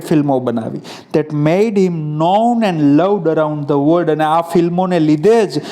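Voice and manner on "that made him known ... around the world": text reading. Acted.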